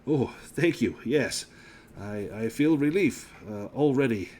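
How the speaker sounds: lightly voiced gasping gentleman; nobleman after a strong drink. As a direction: catch your breath, then recover politely.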